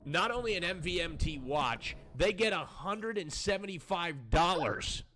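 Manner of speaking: slow, drawn-out game-show prize reveal; prize announcer. Acted. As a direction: sell the prize with big pauses.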